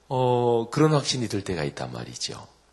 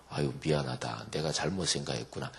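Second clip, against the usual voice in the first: mock apology; 5 semitones lower, 5 dB quieter than usual. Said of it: "그래서 하나님이".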